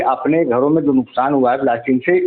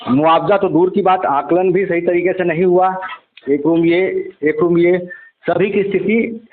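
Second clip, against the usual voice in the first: measured reporter's piece to camera; news report. Acted. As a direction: report to camera, steady and serious. (TV reporter का गंभीर अंदाज़)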